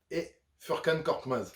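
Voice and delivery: a light try at a Turkish accent on "Furkan Korkmaz". Shown as a demonstration. Listing the Sixers bench, name in mock Turkish accent. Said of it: "mon accent turc est pas exceptionnel".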